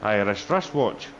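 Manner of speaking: "Irish wristwatch" said slow and careful; tongue twister on request. Shown as a demonstration. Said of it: "Fabian wants you to say Irish wristwatch".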